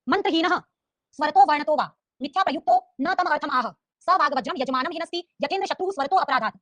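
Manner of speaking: slow, measured shloka recital; teacher reciting scripture deliberately; Sanskrit verse recitation. Shown as a demonstration. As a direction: recite the verse slowly, word by word.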